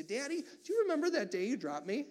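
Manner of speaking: put-on child's question. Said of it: "He'd look at me and say".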